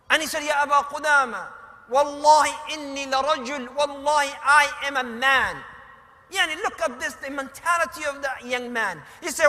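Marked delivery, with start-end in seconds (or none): 0.4-5.6 emphatic protest. Retold or imitated. Boy insists he is a man.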